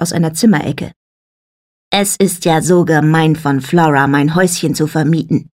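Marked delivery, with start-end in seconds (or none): 1.9-5.5 put-on low, grumbling Scottish accent; grumpy Scottish accent. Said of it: "eine mürrische Stimme mit schottischem Akzent". (mürrisch mit schottischem Akzent)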